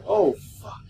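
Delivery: breathy whispered oh fuck; whispered curse. Real, not acted. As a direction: hush it under your breath. Quiet reaction to game event.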